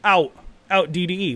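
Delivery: loud, high guru announcing the exit; mock guru call. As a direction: shout it out like a guru dumping shares. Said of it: "And then you hear it".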